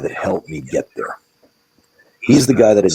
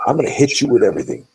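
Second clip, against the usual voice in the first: imitating Carl's threat; 5 semitones higher than usual. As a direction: play the tough trainer promising to hit with everything. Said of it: "Carl had that same kind of mindset where it's like".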